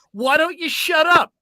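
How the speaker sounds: retold rude caller snapping; mock snapping insult. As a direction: bark it at the host like a rude caller.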